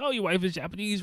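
high-pitched keen interest; pumped stranger. Retold or imitated. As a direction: imitate someone delighted by every answer. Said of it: "super pumped to talk to me".

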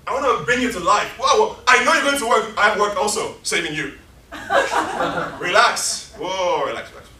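loud, laughing pleas to a stranger; eager street evangelist. Acted. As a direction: chase a passerby down, begging him to stop. Continues the street scene.

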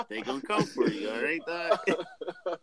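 quiet warning. Retold or imitated. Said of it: "I was just telling myself that".

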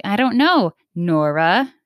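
imitating someone being snippy. Someone snubbing Nora by name, mildly snippy. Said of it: "real snippy with you".

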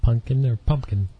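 "pumpkin" first as punkin, then with a clear m-p; two pronunciations of pumpkin. Shown as a demonstration. Host offering a choice of words, two pronunciations contrasted.

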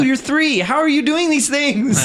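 high-pitched, incredulous retold outburst; mock amazement. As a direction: marvel at the little kid, half laughing. Quotes his amazement at a toddler.

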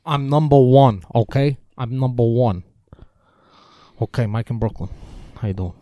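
bad sports-radio host taking a caller, lightly voiced; terrible Francesa impression. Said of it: "That's a terrible Francesa".

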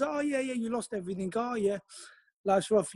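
mocking digs. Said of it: "they used to come up and have their digs".

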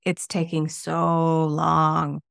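slow, drawn-out whine; whiny complaint. Retold or imitated. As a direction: sigh it out like a tired writer. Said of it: "Number three, quoted complaint".

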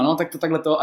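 lightly voiced bossy shop lady; imitating the coworker. Coworker mistakes him for a new hire, lightly mocking voice. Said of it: "A já úplně, ona".

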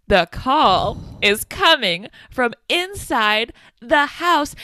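slow, rising, ominous movie line; dramatic reveal. Retold or imitated. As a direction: draw it out like a horror trailer. Cop's dramatic warning, quoted.

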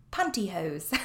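"Pantyhose" with a crisp British t, a bit posh-silly. Shown as a demonstration. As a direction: say "Pantyhose" the British way to show how silly it sounds. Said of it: "how silly does it sound?".

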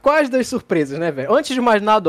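high and loud hype; building hype, drawn-out; excited. Real, not acted. Building up the surprise.

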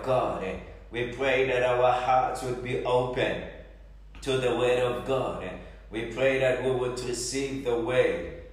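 earnest, pleading prayer voice; fervent prayer. Acted. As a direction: pray aloud over the congregation. Leads congregation in prayer.

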